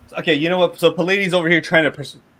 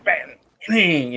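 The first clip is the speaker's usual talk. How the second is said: ringing metal sound effect; imitated hammer clang; 3 semitones higher than usual. Game master describing a dropped hammer, imitated clang. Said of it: "you hear just clink".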